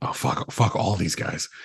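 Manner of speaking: real frustrated whisper; muttered curse. Real, not acted. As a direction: swear it unvoiced, to yourself. Frustrated at team's loss.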